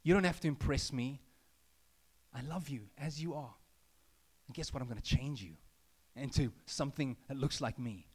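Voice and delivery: low, gentle reassurance; Jesus' voice. Retold or imitated. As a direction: speak tenderly over the listener.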